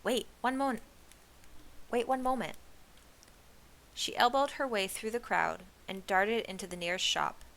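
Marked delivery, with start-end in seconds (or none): 0.0-2.6 high, urgent plea to wait; pitched-up, hurried-sounding cry. A narrator's reading. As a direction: call out to stop someone. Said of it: "she cried".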